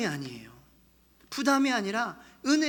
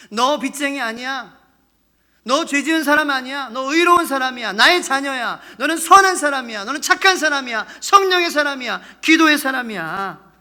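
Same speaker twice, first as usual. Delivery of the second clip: loud, raised, insistent declarations; emphatic affirmation; 6 semitones higher, 12 dB louder than usual. Acted. God declaring his child righteous, fervently. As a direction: proclaim each phrase with rising fervour.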